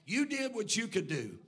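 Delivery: rising to a loud preaching shout; God's booming answer. Acted. God answering Abraham, building to a booming shout. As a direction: build God's reply into a thunderous declaration. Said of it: "He said".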